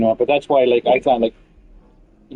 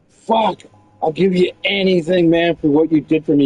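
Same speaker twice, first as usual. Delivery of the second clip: imitating a grateful gamer, higher-pitched; overjoyed; 5 semitones higher than usual. Player thanking friend for the backpack, overjoyed. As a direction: gush with amazed thanks, lightly acted.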